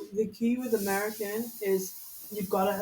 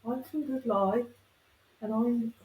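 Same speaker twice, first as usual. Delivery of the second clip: Dudley-style Black Country accent; slower than usual. Shown as a demonstration. Demonstrating the accent of Peaky Blinders to friends, Black Country accent. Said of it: "it's Black Country".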